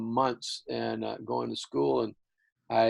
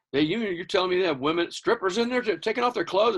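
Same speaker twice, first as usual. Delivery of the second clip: shocked dad; 8 semitones higher, 4 dB louder than usual. Retold or imitated. Dad shocked at strip club.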